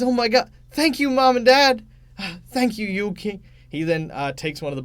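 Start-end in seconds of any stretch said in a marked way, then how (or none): 0.0-3.4 high, loud, thrilled thank-you; a kid bursting with gratitude; overjoyed child. Acted. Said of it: "He says".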